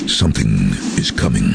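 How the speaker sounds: low movie-trailer voice; trailer voiceover. Retold or imitated. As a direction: intone it like an ominous film trailer. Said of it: "the first line was some".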